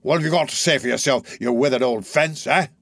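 lightly voiced rough thief; a hint of a snarling robber; gruff Sikes voice. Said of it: "cried Sikes".

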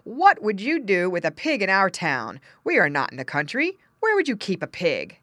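loud questioning objection; incredulous father. Acted. Father objecting to a pig in town, incredulous. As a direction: question the child in disbelief.

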